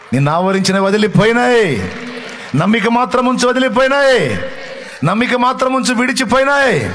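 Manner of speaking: fervent preaching peak; climactic preaching. Acted. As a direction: build to a shouted climax. Climactic declaration to congregation.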